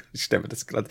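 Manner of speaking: breathy whispered aside; whispering. Real, not acted. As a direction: whisper it, half embarrassed. Flüstert verlegen. (geflüstert)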